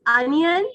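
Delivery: ONION as UN-yun; correct onion. Shown as a demonstration. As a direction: model "onion" with a short uh first vowel. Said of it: "still we pronounce it wrong".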